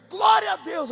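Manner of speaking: high, loud cry of glória; loud praise shout. Retold or imitated. Wife praising God aloud in the woods, loud shout. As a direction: burst out in ecstatic praise. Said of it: "dando glória a Deus alto".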